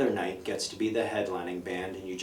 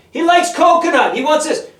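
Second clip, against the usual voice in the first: much higher, screamed loud; mock shouted report; 13 dB louder than usual. Sibling yelling to mom that he wants ketchup, screamed high. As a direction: scream it like telling the whole house.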